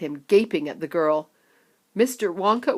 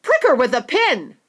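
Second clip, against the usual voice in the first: louder urgent call; a touch of a panicked onlooker; shouting bystander; 7 semitones higher, 7 dB louder than usual. Acted. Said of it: "shouted someone else".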